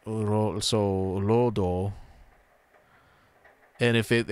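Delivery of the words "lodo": "lodo" with the first o held long; long vowel. Shown as a demonstration. Working out road in Japanese, long-vowel "lodo". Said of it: "make it long vowel".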